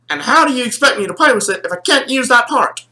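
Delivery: indignant complaint. Retold or imitated. Retold complaint to papa.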